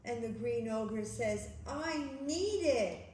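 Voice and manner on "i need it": slow, drawn-out storybook plea; pleading insistence. Acted. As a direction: stretch out the need. Ogre insists in story quarrel.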